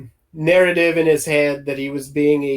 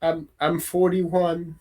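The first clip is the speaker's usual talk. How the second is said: hesitant restart on the first word; slight stammer; 5 dB quieter than usual. Acted. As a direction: answer with a mild stammer. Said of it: "he sort of stammers again".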